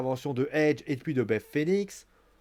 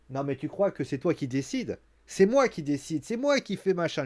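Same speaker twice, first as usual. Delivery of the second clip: smug mockery. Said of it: "qui rigole comme elle rigole et qui lui fait".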